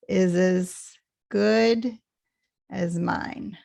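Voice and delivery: slow, IS AS light, GOOD drawn out; stress on GOOD. Shown as a demonstration. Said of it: "good has a little more stress".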